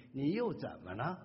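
mild snap at a husband you dislike; annoyed. Shown as a demonstration. Wife annoyed at her husband, irritated. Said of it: "你看见那先生本来就不顺眼".

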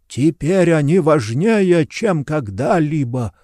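slow, breathless dying rasp; gasping. Acted. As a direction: gasp the words out, slowly. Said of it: "задыхаясь, прохрипел Керлин". (задыхаясь, с хрипом)

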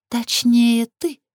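pointed, high-pitched scoff; snorted correction. A narrator's reading. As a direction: correct them with a scornful lift. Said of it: "фыркнула Лилит".

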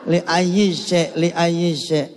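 slow, careful drill of the phrase; slow repeat. Shown as a demonstration. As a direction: spell it out slowly for the student. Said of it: "apalagi tuh li ayyi syai'". (pengulangan pelan)

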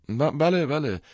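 startled, stuttering agreement; flustered stammer. A narrator's reading. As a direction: stumble over the word, then repeat it. Stammered answer to angry father.

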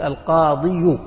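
القاضي said with a forced u after the final i, like alqadiu; heavy final u. Shown as a demonstration. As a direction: push a clumsy u onto the end of القاضي to show it is heavy. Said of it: "لكنها ثقيلة".

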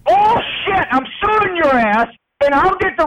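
high angry yell of bullshit; furious yell. Real, not acted. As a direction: explode at him. Irate resident yelling at HOA.

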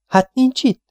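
high-pitched, dismayed query; crestfallen question. A narrator's reading. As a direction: ask with sinking hopes. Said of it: "kérdezte letörve Liam". (letört, magas hangú kérdés)

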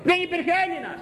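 high, indignant exclamation; outraged cry. Real, not acted. Preacher protests no Greek child remained, high and indignant. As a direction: cry it out in disbelief.

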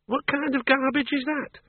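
high, scornful retort; scornful woman. Acted. Miss Flitworth scoffs at Bill's words, high and scornful. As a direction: scoff at his nonsense.

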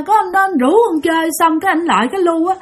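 lightly voiced sobbing toddler; crying child voice. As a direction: speak like a frightened three-year-old, near tears. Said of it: "mà vừa nói vừa khóc nha".

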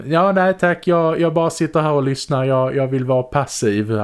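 high-pitched, polite brush-off; reluctant Carl. Acted. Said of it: "han sitter liksom".

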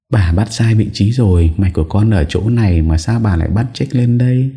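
a little know-it-all correcting grandma; a hint of a playful kid's voice; cheeky child voice.

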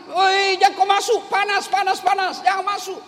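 imitated alarmed cry; alarmed warning. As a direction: yell a frantic warning to keep out, hammed-up. Villager warns man off hot oven.

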